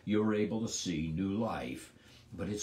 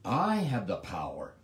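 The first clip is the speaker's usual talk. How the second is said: boast. Acted. Pilate boasting of power.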